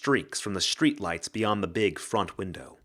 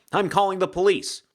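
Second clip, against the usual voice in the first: higher and louder, a frightened woman; frightened heroine; 9 semitones higher, 5 dB louder than usual. Acted. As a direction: threaten to call the cops, rattled. Penn threatens the invisible man.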